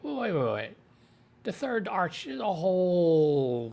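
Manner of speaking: high-pitched, startled protest; retold shock. Viewer watching the third arch end suddenly, retold shock. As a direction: act out your baffled disbelief as a viewer. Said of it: "I'm, like, shocked".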